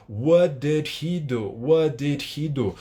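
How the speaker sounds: slow "What did he do?", no linking; each word of "What did he do" fully sounded; school English. Shown as a demonstration. Teacher drilling the classroom way, slow and separated. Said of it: "de forma lenta".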